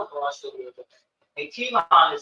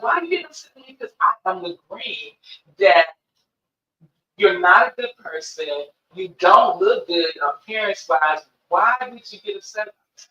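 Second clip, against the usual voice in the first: pointed challenge; 6 dB louder than usual. Retold or imitated. Provoking client by agreeing with self-insults.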